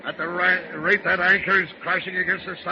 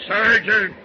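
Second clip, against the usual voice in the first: louder, scoffing outburst at the word; indignant shout; 4 semitones higher, 7 dB louder than usual. Acted. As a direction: spit the word back in outrage. Captain scoffs at surgeon idea.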